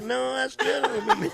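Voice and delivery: feigned non-recognition. Acted. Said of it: "I'm like".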